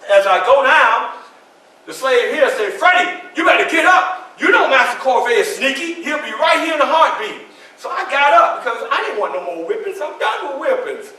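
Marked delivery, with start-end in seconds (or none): 2.7-7.4 raised, urgent call to get up; urgent warning. Retold or imitated. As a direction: hurry him up before the master comes. Fellow slave urging him up.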